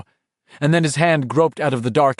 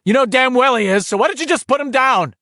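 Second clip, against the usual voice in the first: higher, insistent inner voice; urging inner voice; 13 semitones higher, 3 dB louder than usual. A narrator's reading. Bill's own mind pressing him to drop Richie, insistent. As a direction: push him to give up, sharply.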